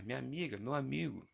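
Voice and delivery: preacher voice. Pretend. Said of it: "Falei igual o bispo do Universal agora".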